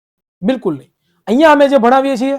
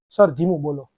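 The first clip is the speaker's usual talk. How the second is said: mock student plea; 9 semitones lower, 8 dB quieter than usual. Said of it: "ધીમું જોવું તારે?".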